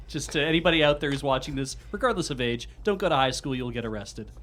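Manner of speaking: mock announcement.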